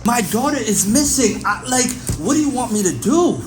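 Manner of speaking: desperate plea. Acted. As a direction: plead with the detective, at wits' end. Father pleads, daughter missing.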